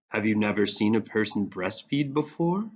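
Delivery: flat, bored monotone. Acted. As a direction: say it with no life at all. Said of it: "he monotoned".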